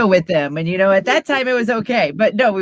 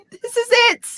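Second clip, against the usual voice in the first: lifts into a higher, announcer-style voice for fun; put-on radio voice. Jokingly doing the radio voice the fans asked for. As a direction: play up the radio voice as a joke, laughing. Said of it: "turn on your radio voice".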